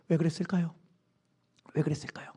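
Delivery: usual speaking voice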